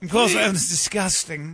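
drawn-out English upper-class disdain; mock English accent. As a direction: sniff it out like an English snob. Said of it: "Is that why you're doing the accent?".

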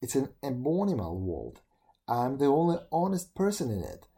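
grumbling beetle. Acted. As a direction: rant like a wronged beetle. Beetle rants about the world.

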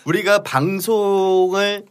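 normal talking voice

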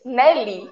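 "Nelly" stressed on the last syllable, Li; "Nelly" with the weight at the end, ne-LI. Shown as a demonstration. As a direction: lean on the Li in "Nelly". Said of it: "A sílaba tônica é o Li".

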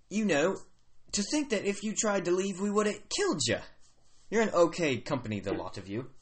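chummy, hammy Australian orc. Acted. Orc walking guests to the chief, Australian accent. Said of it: "the orc says".

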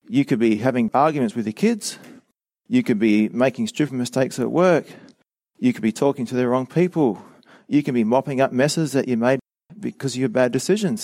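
deadpan mock agreement, then a sarcastic list; lightly tongue-in-cheek. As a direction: reel off absurd alternatives as if sincerely recommending them. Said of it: "I'm being quite sarcastic there".

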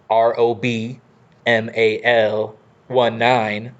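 evenly spaced, robotic spelling. Pretend. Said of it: "I just put on my robot voice".

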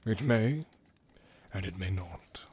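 hushed, ominous whisper; calm gentle wise voice. Acted. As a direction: let it trail to a warning whisper. Gandalf warning.

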